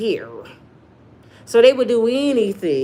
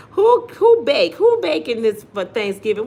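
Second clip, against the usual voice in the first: excited question; 3 semitones higher, 5 dB louder than usual. Real, not acted. Asking chat about baking.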